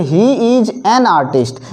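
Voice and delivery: slow and clear; slow classroom example; slow demo sentence. Shown as a demonstration. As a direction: dictate it word by word. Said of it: "अगला देखिए".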